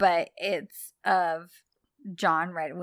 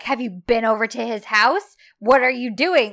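mock-indignant outburst, building louder; retold wigging out; 2 semitones higher, 6 dB louder than usual. Man confronting her about his house, mock wigging out. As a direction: demand it in mounting mock outrage. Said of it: "He, like, wigs out".

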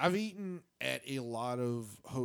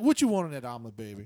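imitating the room service lady; 5 semitones lower, 7 dB louder, faster than usual. Retelling the hotel lady taking his order, light doting voice. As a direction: ask like a fussy auntie. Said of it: "This woman definitely sounds like she's Korean".

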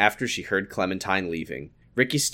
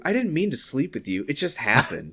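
higher-pitched, lightly acted excuse; pleading apology; 6 semitones higher, 3 dB quieter than usual. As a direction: plead innocence in a raised voice.

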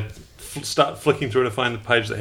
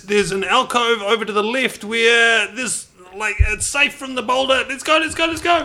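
anxious tour guide, pitched way up; high-voiced nervous guide Vic; 10 semitones higher, slower than usual. Player voicing Vic reading the guidebook, high and flustered.

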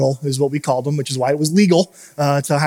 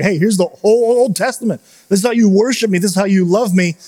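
lightly voiced God, raised and a bit louder; a hint of God laying down the law; voicing God; 4 semitones higher, 3 dB louder than usual. Pastor voices God in retelling.

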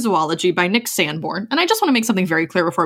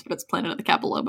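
whispered; 3 semitones lower, 6 dB quieter, much faster than usual. Real, not acted. Joking aside.

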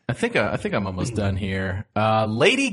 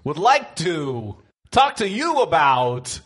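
Christopher Walken; 6 semitones higher, much slower than usual. Retold or imitated. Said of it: "Your Christopher Walken sounds very much like Kevin Spacey".

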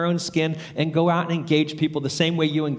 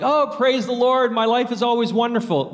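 mock cheerful; 6 semitones higher than usual. Preacher mocking fake-happy believers, in a hammed-up cheerful voice. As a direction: parody a falsely upbeat Christian. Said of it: "don't think Shema statements are always like".

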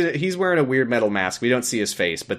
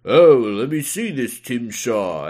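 husband coming home. Acted. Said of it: "And he's like".

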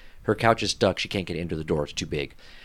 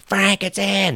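much higher, calling to the next room; high sing-song call; 10 semitones higher, much slower than usual. Retold or imitated. Imitating lady calling her husband, high sing-song. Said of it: "she goes".

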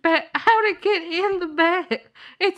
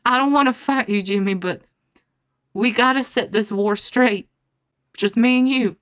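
deep grave voice; 5 semitones lower than usual. Acted. Grave duel challenge voice.

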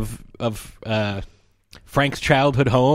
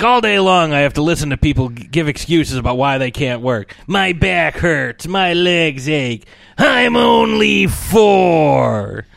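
mocking excuses; 4 semitones higher, 4 dB louder than usual. Dad mocking excuses to his wife, building to a loud whine. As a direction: rant building into a slow, high mock wail.

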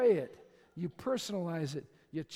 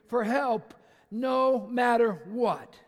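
drawn out; 6 dB louder, much slower than usual. Acted. Drawn-out scripture reading.

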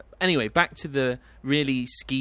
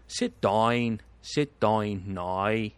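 put-on Northern Irish accent; much slower than usual. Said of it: "'cause Northern Irish is like".

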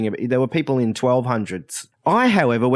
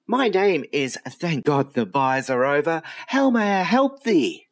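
angel receptionist; 3 semitones higher than usual. Acted. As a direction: greet them like a heavenly clerk. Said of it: "what could only be described as an angel".

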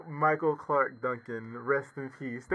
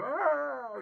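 mock scream; 11 semitones higher, 4 dB quieter than usual.

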